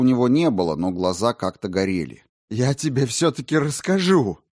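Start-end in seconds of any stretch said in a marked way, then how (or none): 2.5-4.4 eager, fired-up outburst; enthusiastic. A narrator's reading. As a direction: blurt it out with enthusiasm. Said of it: "с воодушевлением".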